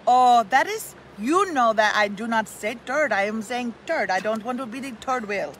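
put-on North Dakota accent, emphatic; friend's North Dakota accent protesting. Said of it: "I did my North Dakota accent".

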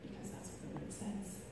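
very soft, hushed reassurance; gentle parental answer. Retold or imitated. Mom answering her upset daughter with scripture, softly and gently.

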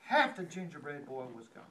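high, crisp snip snap; storyteller acting out the fox's bites; snapping bites. A narrator's reading. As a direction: bite off each word. Fox biting the gingerbread boy.

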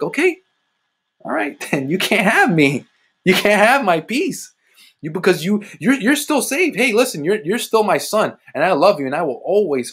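high-pitched imagined divine reply; God conceding. Retold or imitated. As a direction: reenact God letting him have his way. Voices God's reply to him.

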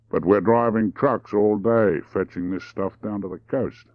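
mildly drawn-out delivery; slow the opening words down; unhurried, deliberate explanation; deliberate drawl. Acted. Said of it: "He spoke deliberately in a slow drawl".

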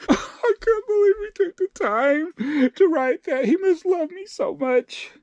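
high, hammed-up happy sobbing; mock crying. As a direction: bawl as if deeply touched. Mock crying over an insulting comment.

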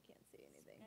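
breathless whisper in the dark; a frightened girl whispering alone in the dark. Acted. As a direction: barely voice it, afraid. Lost in darkness.

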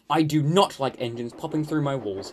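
mildly indignant, emphatic complaint; fuming. Acted. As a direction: complain with contained crossness. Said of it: "he fumed".

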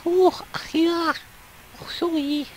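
put-on high Russian accent, bunged up with a cold; soft, high, congested Russian voice. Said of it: "sounds like some Russian that's got a really bad cold".

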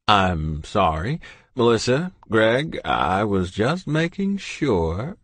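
put-on jovial old doctor, booming hello; kindly old doctor voice; cheery doctor. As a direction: greet them like a beaming family doctor. Doctor apologises slowly.

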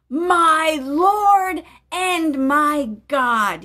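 slow, amazed cry; awed exclamation. Acted. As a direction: stretch it out in wonder. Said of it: "he exclaimed".

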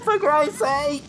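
drawn-out exasperated wail. Real, not acted. Player despairing at her Sim on fire, slow high wail.

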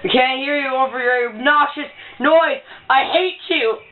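pretending not to hear. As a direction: act as if the line is too noisy. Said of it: "She just goes, "What?".

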